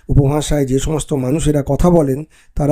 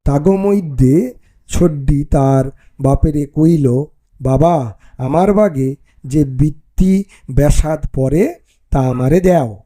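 Bangali dialect reading; slower than usual. Shown as a demonstration. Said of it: "কীভাবে বলতে হবে".

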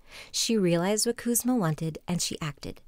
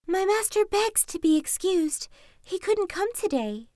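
higher, sly fox voice; 9 semitones higher than usual. Acted. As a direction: play the clever fox. Fox speaking to king.

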